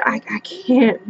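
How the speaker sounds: breathy whisper, no voice. Retold or imitated. Leaving the house in shock, whispering. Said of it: "I said".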